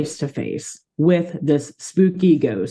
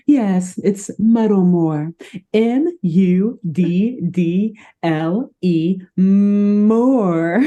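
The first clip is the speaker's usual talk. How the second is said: pompous traveler voice; 4 semitones higher, much slower than usual. Acted. Mudsie acting proud traveler.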